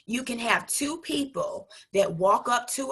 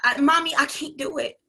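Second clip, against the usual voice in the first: put-on a frustrated child's voice, higher at the start then fading; whiny little kid; 4 semitones higher than usual. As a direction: voice a little girl giving up on her scissors. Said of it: "She's like".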